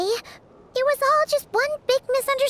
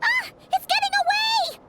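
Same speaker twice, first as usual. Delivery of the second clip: alarmed cry; 8 semitones higher than usual. Acted. Chasing a fleeing thief.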